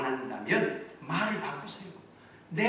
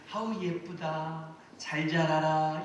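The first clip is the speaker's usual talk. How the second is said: slow, gentle coo to a flower; tender praise; slower than usual. Retold or imitated. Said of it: "이렇게 칭찬해주고". (화분에게 천천히 다정하게 칭찬하는 말투)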